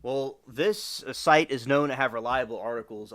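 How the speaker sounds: mildly sarcastic assertion; deadpan sarcasm with a touch of emphasis. Real, not acted. Livestreamer mocking an article site's reliability, sarcastic. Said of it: "I'm being sarcastic".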